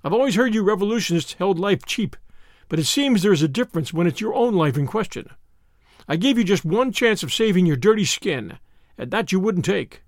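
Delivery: lightly drawled American reproach; cool American avenger. Acted. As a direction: deliver a calm threat as the American gunman.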